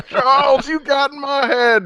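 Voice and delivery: high, loud hammed-up yell; laughing mock outrage; Juggernaut quote. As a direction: cry out like a parody brute. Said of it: "our favorite Juggernaut bitch quotes".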